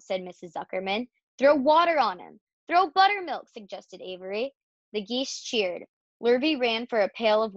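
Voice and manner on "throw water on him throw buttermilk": high, loud eager call; excited storybook exclamation; urgent suggestion. A narrator's reading. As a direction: call out instructions, pitch climbing. Urgent suggestions after pig faints.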